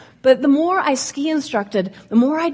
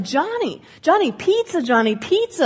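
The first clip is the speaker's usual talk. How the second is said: put-on raised calls to a kid down the slope, higher; calling out; 5 semitones higher than usual. Instructor calling out to a speeding kid, raised calls. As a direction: call after a kid to make pizza. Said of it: "I'd be like".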